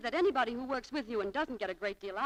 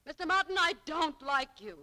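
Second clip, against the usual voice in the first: defiant; 5 semitones higher, 4 dB louder than usual. Acted. Clerk's defiant outburst.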